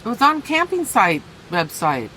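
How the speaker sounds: talking with a mouthful of peanut butter; mouth full of peanut butter. Real, not acted. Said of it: "I have peanut butter in my mouth".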